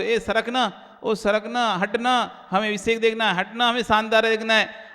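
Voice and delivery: mock pestering complaint; acted impatient nagging. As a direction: pester the person blocking your view to move. Acts out nagging people to move.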